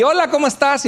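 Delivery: high-pitched cheery hello, lightly acted; smiley greeting. Churchgoer greets someone, unaware of cilantro in teeth, smiley. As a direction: greet them with an oblivious smile. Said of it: "Y te sonríes y hasta muestras los dientes".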